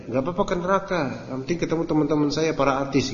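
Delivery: light mock of a careless celebrity; airy, dismissive imitation; mocking the artist. Ustadz mocking an artist who dares hell, lightly mocking. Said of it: "Ngomongnya gitu kan?".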